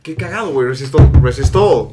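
amused. Real, not acted. Laughing at the brand name.

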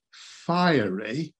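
fiery drawn out with a rising tune; fiery given weight and lifted at the end; stress on fiery. Shown as a demonstration. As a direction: lean into the word fiery. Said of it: "I emphasize the word fiery".

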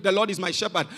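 lightly voiced rote recital, low and soft; boy's recitation. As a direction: recite the psalm quietly, without weight. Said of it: "he came up, he recited".

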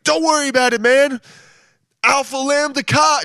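chest-bump the crew with bro energy; party-bro astronaut yelling to the crew; fratstronaut. Acted. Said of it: "I just made a character".

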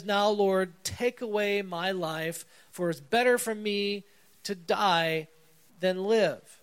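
drama queen. Retold or imitated. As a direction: ham up Jonah's melodramatic wish to die. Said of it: "That's the drama queen that Jonah is".

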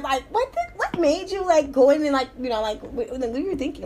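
put-on valley girl. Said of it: "I started talking like a valley girl".

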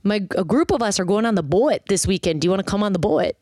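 imitated Minnesotan with a long, bent O in boat; thick Minnesotan accent. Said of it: "the accent was so thick".

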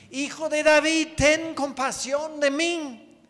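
high, loud pleading cry. Acted. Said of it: "él gritó aún más fuerte".

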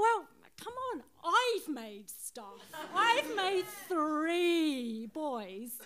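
laughing through tears. Real, not acted. Mum's proud toast about sons.

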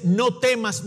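loud proclaimed command. Acted. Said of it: "Iglesia, el Señor te dice".

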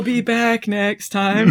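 very slow, drawn-out exit line; slow villain farewell. Retold or imitated. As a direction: stretch out the villain's goodbye.

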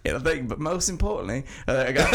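mock Aussie accent slipping into British, with laughs; laughing while reading the Aussie listener's email in a bad accent; bad Australian accent. Listener email in a slipping mock Australian accent. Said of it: "a really shitty Australian accent".

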